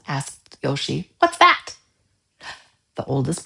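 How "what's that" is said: put-on curious child. A narrator's reading.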